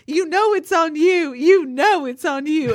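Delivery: high, loud, slow mock yell in a Southern twang. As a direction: point at him and yell it in a thick Southern twang. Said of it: "screaming it so loud with a, just a glorious Southern twang".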